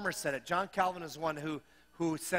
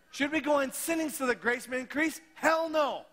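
emphatic quote; 6 semitones higher, 4 dB louder than usual. Acted. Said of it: "It's a very emphatic".

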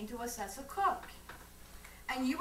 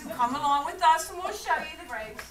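eager invitation; 5 semitones higher, 8 dB louder than usual. Acted. Aunt eagerly invites lieutenant.

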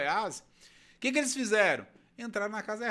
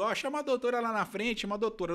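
retold call; 6 semitones higher than usual. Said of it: "eu fui ver que é a doutora".

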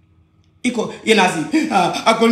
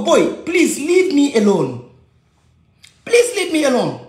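pleading; 4 semitones higher, slower than usual. Retold or imitated. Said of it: "ngo ko".

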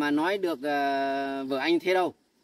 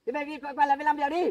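calling out; 9 semitones higher, faster than usual. Acted. Husband calling and protesting to mother.

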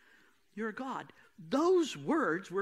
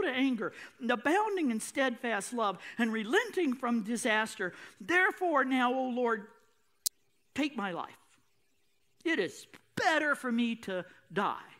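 measured, solemn Bible reading; scripture reading. Acted. Preacher reading Jonah's prayer to the congregation, solemn. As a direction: read Jonah's complaint to God with weight.

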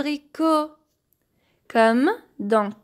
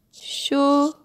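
"Chocolat" in three separated syllables, cho, co, la; 3 semitones higher than usual. Shown as a demonstration. Teacher splitting a word for children, "Chocolat" syllable by syllable. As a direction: break "Chocolat" apart with long pauses between syllables. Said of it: "nous avons la syllabe ko".

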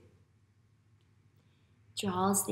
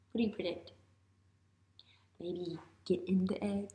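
whisper; 2 semitones lower, 7 dB quieter than usual. Real, not acted. Teacher hints at prediction.

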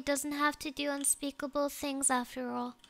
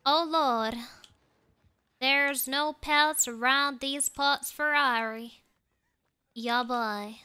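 playful Southern twang; Southern country talk, played up; Southern accent. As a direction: put on a folksy Southern accent. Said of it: "be a Southern".

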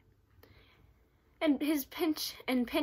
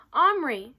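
loud call from another room, higher; mother calling Omri from downstairs, loud and higher; 5 semitones higher, 13 dB louder than usual. A narrator's reading. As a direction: call the boy's name across the house. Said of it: "came his mother's call".

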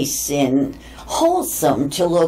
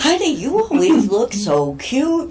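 men complimenting; 8 semitones higher than usual. Retold or imitated. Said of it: "the guys will go".

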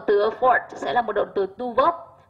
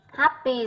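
happy stressed on "hap"; first-syllable stress; 4 semitones higher than usual. Shown as a demonstration. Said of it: "rơi vào âm một". (nhấn âm tiết đầu của happy)

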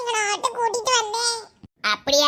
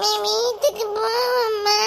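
tearful plea; slower than usual. Acted. Mother sends daughter home crying.

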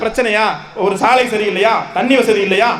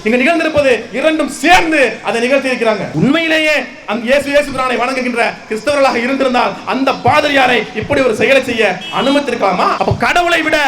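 forceful protest speech in long, punched phrases; impassioned rally oratory. Real, not acted. Party speaker denouncing a political killing to a crowd, impassioned oratory. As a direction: address a crowd with indignant conviction.

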